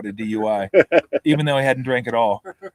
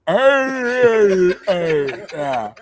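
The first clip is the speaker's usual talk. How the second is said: higher, louder mock growl; growling Woody; 6 semitones higher, 6 dB louder, much slower than usual. Woody growling at the flight attendant. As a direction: snarl back like a beast. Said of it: "Woody turns around and goes".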